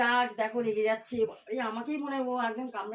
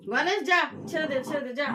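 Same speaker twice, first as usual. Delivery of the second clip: shooing call. Real, not acted. Shooing dog away.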